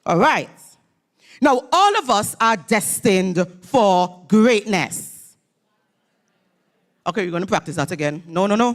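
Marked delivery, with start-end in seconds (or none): 1.4-5.3 slow, weighty call to the crowd; slow emphatic call. Shown as a demonstration. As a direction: lean into every word like a rallying line. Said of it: "a little call and response".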